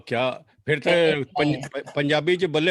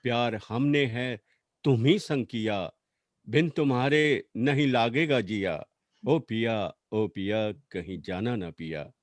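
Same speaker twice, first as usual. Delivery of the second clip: poetry recital; 3 semitones lower than usual. Acted. Recites poem as pleading wife.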